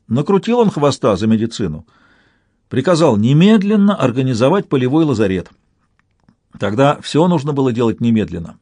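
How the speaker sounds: ordinary delivery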